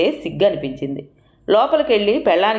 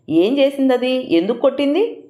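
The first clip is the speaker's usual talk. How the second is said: asked slowly; 8 semitones higher than usual. A narrator's reading. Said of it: "నెమ్మదిగా అడిగాడు".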